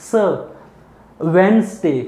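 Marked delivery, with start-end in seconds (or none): 1.2-2.0 teacher modelling वेडनेसडे with a z; model pronunciation. Shown as a demonstration. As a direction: say वेडनेसडे with a z, not s. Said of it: "सुन रहा होगा आपको स".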